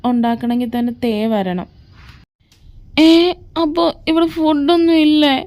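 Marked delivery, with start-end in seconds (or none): 3.0-5.4 pitched-up disbelieving question; can't believe there's no food; shocked and indignant; dismayed surprise. Acted. Hungry friend hears no food.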